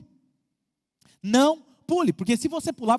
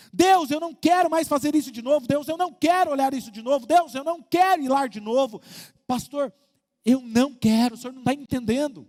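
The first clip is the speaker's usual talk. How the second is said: mock desperate plea; 3 semitones higher, 5 dB louder than usual. Pregador imita fiel suplicando.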